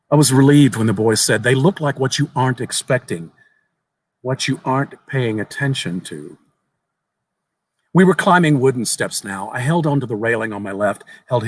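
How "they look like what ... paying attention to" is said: a hint of a small earnest boy, raised pitch; lightly voiced young boy. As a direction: tell it like an eager child sharing a secret.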